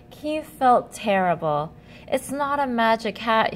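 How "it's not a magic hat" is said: sad admission. Acted. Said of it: "he admitted sadly".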